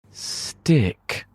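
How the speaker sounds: a high, drawn-out stick; sticky sound effect. A narrator's reading. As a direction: make the word sound like it glues.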